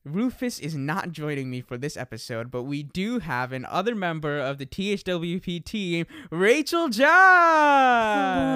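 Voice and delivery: drawn-out announcer introduction; game show host. Acted. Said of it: "said that like a game show host".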